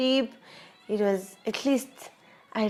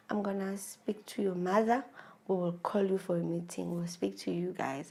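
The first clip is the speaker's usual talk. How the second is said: retold reassurance; 9 dB quieter than usual. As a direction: quietly promise to sort it out. Father-in-law reassures her, retold.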